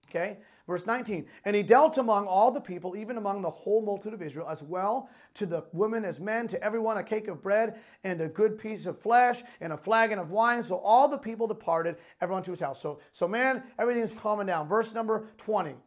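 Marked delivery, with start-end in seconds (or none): 1.4-12.8 animated, emphatic Bible reading; proclaimed scripture, phrase by phrase. A narrator's reading. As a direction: read the verses out with preacher's emphasis. Reads scripture aloud to congregation.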